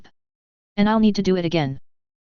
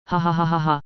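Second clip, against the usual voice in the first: belly laugh. Acted. Narrator laughing helplessly at his angry friend. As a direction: let the laugh surge out of the belly. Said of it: "I laughed".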